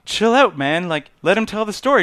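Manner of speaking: loud, high mock telling-off; retold scolding. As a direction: imitate a group shushing someone loudly. Everyone acted telling Roman off.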